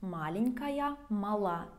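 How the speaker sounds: Маленькая on МА, then мала stressed on the last ЛА; stress shown. Shown as a demonstration. Teacher drills the stress shift from Маленькая to мала. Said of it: "Memorize it with the stress".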